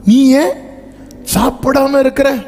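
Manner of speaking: a lightly voiced baffled husband; husband's mock question. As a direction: ask why she won't eat, raising the pitch. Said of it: "சொல்லற மாதிரி சொல்றாரு".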